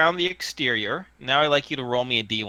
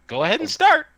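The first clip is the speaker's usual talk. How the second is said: high-pitched little tinny voice; small tinny voice; 13 semitones higher, 4 dB louder, faster than usual. Acted. Hidden voice in the tree asks to see faces, tinny. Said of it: "tinny voice comes from the tree".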